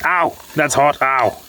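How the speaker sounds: burnt fingertips. Real, not acted. Touching the hot pan.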